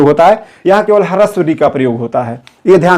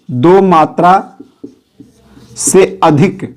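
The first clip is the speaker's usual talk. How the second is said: दो मात्रा said very slowly, stretched, pause before से अधिक; drawn-out teacher emphasis on दो मात्रा; much slower than usual. Shown as a demonstration. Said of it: "उसे प्लुत स्वर कहते हैं". ("दो मात्रा" बहुत धीमे, खींचकर)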